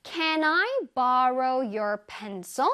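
Can I borrow your pencil? 을 한 단어씩 아주 천천히; slow model sentence. Shown as a demonstration. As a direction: read it slowly for learners. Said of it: "짜잔". (아주 천천히 또박또박 읽는 예문)

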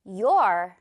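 "Your" as one deliberate syllable, you and are merged; low, firm "Your" for repeating; model pronunciation. Shown as a demonstration. Teacher has learners listen and repeat, modelling the contraction. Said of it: "듣고 따라해 주세요".

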